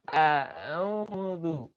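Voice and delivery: A'udzu with a tight mid-throat ain; throat-squeezed ain; clear ain. Shown as a demonstration. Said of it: "A, A, A".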